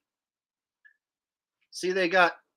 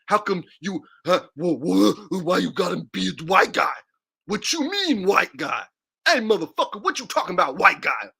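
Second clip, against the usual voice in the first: hammed-up indignant stammer, louder in bursts; mock outrage; 5 dB louder than usual. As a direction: act out an offended listener challenging the comedian. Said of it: "and no one says".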